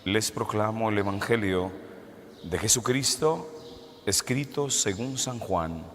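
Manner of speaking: solemn, measured liturgical reading; gospel reading. Acted. Priest proclaims the gospel.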